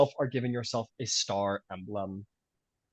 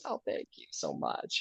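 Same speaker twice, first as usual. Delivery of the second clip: gracious lady; 11 semitones lower, 8 dB quieter than usual. Acted. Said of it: "nods her head and goes".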